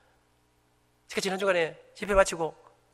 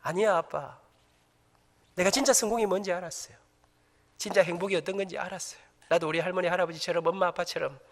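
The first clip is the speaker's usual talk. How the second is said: soft, lower, sincere son's words; son's sincere reply; 3 semitones lower, 4 dB quieter than usual. Retold or imitated. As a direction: say it quietly and earnestly. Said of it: "우리 아들들이". (아버지에게 진심으로 말하는 아들, 낮고 조용하게)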